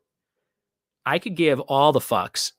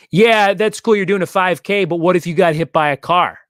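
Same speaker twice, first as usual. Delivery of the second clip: mocking a worried friend, louder and higher at the start; mock worrier; 4 semitones higher, 4 dB louder than usual. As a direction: needle them with a worst-case fear. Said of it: "They're like".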